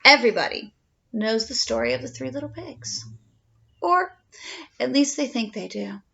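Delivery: lightly voiced wolf narrator, chatty; a hint of a sly wolf telling his side; storytelling wolf. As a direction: tell it as the wolf, confiding. Reads the wolf's story aloud.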